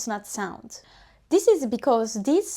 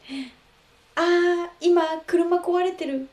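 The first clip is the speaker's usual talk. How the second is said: casual native speaker; 6 semitones higher than usual. Shown as a demonstration. Mako telling friends the car is broken, reluctant. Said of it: "let me demonstrate how natives actually sound".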